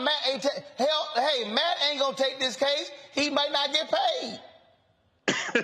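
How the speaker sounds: high, laughing teasing. Real, not acted. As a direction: rib him, voice up high. Teasing friend about money.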